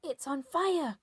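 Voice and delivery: put-on old woman yelling. A narrator's reading. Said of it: "Grandma yelled".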